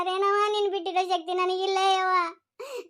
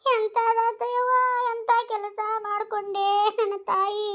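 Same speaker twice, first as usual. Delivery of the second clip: slow sing-song wail of grief; keen over her like a village mourner, slowly; wailing lament; slower than usual. Acted. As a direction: grandmother wailing over her poisoned granddaughter in a slow chant. Grandmother laments poisoned granddaughter.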